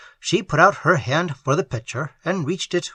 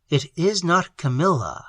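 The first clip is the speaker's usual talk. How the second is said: slow and gentle; 2 semitones higher than usual. Acted. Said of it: "speaking in a slow and gentle voice".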